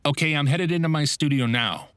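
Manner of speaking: sounding totally normal. Retold or imitated. Half-asleep voice actor reassuring the client on the phone, falsely bright. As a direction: pretend to be wide awake and professional. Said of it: "end the call with".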